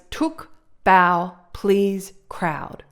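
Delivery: "took", "bow", "please", "crowd" each set apart and stressed; emphasized words. Shown as a demonstration. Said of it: "words that are naturally more emphasized".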